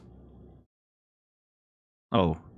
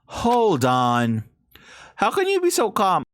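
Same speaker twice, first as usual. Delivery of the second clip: put-on higher distraught girl voice; lightly voiced upset girl; Hina voice; 10 semitones higher than usual.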